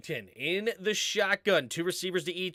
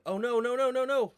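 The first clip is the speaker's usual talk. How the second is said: higher-pitched string of dismayed no's; 8 semitones higher than usual. Real, not acted. Streamer whose band sound effect failed, dismayed. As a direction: run the no's together in dismay.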